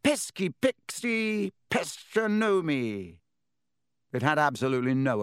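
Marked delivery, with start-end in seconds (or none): 0.0-3.2 high, slow spell bellow. A narrator's reading. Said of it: "and bellowed".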